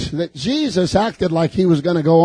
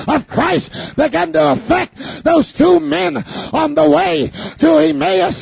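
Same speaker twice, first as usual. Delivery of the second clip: full-force preaching; 9 semitones higher than usual. Acted. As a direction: drive it home with slow shouts.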